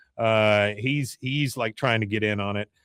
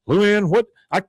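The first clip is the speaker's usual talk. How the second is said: exasperated; 8 semitones higher, 5 dB louder than usual. Retold or imitated. Hank exasperated.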